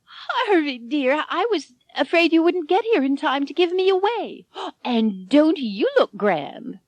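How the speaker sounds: put-on high, frail old woman, delighted; a bride greeting her escort warmly; high old lady, gasping with delight. A narrator's reading. Elvira greets Harvey.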